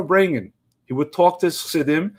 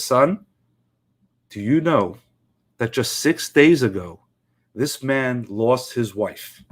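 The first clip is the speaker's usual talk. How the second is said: a father breaking sad news gently; grave low fatherly voice; solemn father; 4 semitones lower than usual. Retold or imitated. Father tells son gently.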